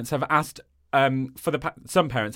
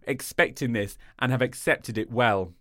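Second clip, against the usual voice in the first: Nottingham accent. Shown as a demonstration. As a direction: speak as a Nottingham local. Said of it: "Nottingham accent, how do I do it?".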